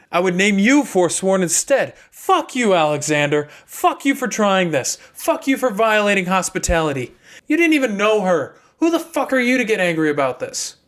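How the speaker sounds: angry outburst. Acted. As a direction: spit the curses at him. Seth cursing Alexander in anger.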